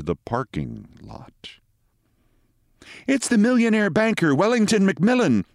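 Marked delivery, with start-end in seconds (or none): 3.1-5.4 high-pitched voice of a nurse. A narrator's reading. Nurse tells the doctor about the patient, in a high nurse voice. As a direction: speak high, as the hospital nurse. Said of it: "said the pretty nurse".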